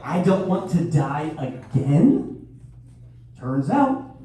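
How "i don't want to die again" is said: slow, disbelieving echo through a laugh; incredulous repeat. Retold or imitated. Stunned dad echoing daughter's eerie words, laughing. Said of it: "The fuck did you just say".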